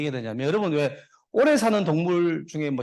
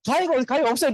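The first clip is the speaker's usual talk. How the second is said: high-pitched joke pharmacist; lightly acted pharmacist, pitched well up; flustered pharmacist; 9 semitones higher, 4 dB louder than usual. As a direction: deny it in a raised, higher voice. Pharmacist answers rabbit in joke.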